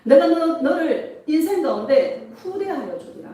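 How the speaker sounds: lively prophetic declaration to the congregation; 예수님 음성. Retold or imitated. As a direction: proclaim promises firmly, phrase by phrase. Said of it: "예수님의 음성이 들리는 거예요". (축복을 선포하듯 힘 있게)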